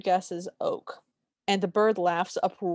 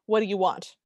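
mock Midwestern accent. Podcaster imitating the Great Spirit's grating voice in a mock Midwestern accent. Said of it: "his accent is so grating".

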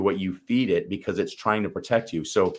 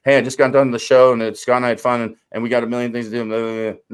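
louder, hyped chatter; rushed busy mind; 2 semitones higher, 6 dB louder, faster than usual. Retold or imitated. Coach mocking the busy post-show mind, louder. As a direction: babble on about all the things to do.

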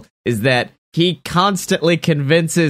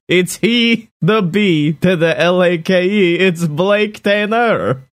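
fantasy narrator voice; 3 semitones higher than usual. Acted. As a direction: announce the hero like a herald. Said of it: "my fantasy voice".

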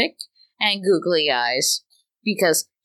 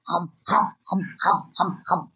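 imitating dog hum; 3 dB quieter than usual. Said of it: "they start to do that hum".

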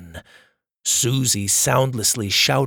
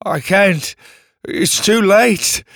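sorrowful refusal; 6 semitones higher, 5 dB louder, slower than usual. Acted. Refuses to save brother.

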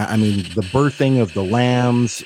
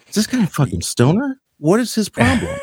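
mock irritated; 11 semitones higher than usual. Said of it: "And you're like".

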